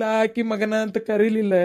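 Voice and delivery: crying. Acted. Brother grieving for mother.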